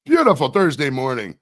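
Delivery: loud announcer-style correction; yelled station break. Pretend. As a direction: call it out like a radio host. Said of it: "I just gotta yell".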